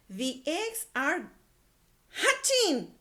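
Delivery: high, loud hatching; excited reveal. A narrator's reading. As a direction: burst out with the news. Reveal of the surprise.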